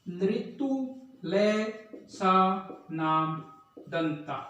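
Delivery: slow, spaced dictation; syllable by syllable. Shown as a demonstration. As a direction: say लृतु ले सा नाम दंता one piece at a time with pauses. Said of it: "तो ये सूत्र है".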